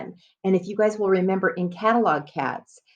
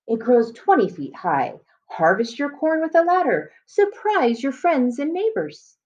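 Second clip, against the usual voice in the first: catalog ad voice; 3 semitones higher, slower than usual. Acted. Teacher reads the seed catalog's italic text, lightly voiced ad pitch. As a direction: pitch the wonder corn like an advertisement. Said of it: "coming straight from the advertisement or the catalog".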